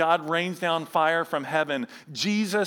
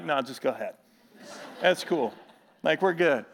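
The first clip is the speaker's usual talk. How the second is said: put-on scared kid giving way; 5 semitones lower, 4 dB quieter than usual. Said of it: "he'd be like".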